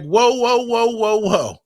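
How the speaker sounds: mock-alarmed slow-down plea; alarmed halting. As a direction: act out a startled dad calling a halt. Dad halting daughter's rant, retold.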